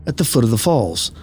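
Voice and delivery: measured storytelling read, pausing between phrases; unhurried campfire-tale narration; story narration. A narrator's reading. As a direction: read an eerie first-person account evenly and deliberately. Reads out a first-person eerie account.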